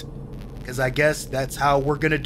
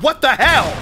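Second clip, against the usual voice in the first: surprised; 9 semitones higher, 7 dB louder than usual. Real, not acted. Startled by sudden attack.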